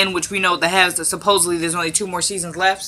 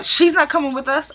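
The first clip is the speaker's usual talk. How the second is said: pitched way up, mocking her refusal; mock high Hannah; 8 semitones higher than usual.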